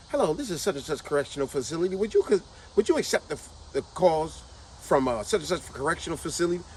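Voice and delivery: recorded operator voice announcing a collect call; automated prison operator. Retold or imitated. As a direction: read it like an automated phone operator. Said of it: "you get calls like this".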